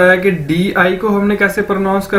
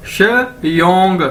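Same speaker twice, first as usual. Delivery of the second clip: श्योंग drawn out slowly as shyong; slow, deliberate pronunciation demo; slow drill; much slower than usual. Shown as a demonstration. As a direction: stretch श्योंग for the learners. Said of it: "क्या बन जाएगा".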